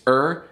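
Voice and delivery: "er" held up alone as the ending; isolated final syllable. Shown as a demonstration. Showing viewers the ending that fails to rhyme, isolated syllable. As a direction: draw out "er" as a separate sound. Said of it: "the last syllable of this".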